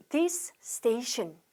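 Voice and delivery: "this" and "station" split, each with its own s; separate s sounds. Shown as a demonstration. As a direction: pronounce both s sounds, word by word. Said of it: "this에서 스로 끝나고 그다음에 station에서도".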